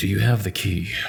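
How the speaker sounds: very quiet muttering under breath. Voicing a character asking companions about a key: very quiet under-breath voice. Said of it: "very, very quietly under his breath goes".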